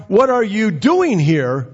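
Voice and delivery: drawn-out question with DOING pitched high; high, slow question peaking on DOING; stress on DOING. Shown as a demonstration. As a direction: punch and stretch the word "doing". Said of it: "if I was to say to you".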